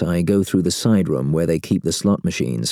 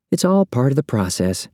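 apologetic; 7 semitones higher than usual. A narrator's reading. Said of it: "she goes all apologetic".

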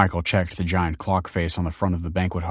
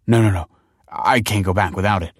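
desperate plea; 4 dB louder than usual. Acted. Michael desperate at the counter.

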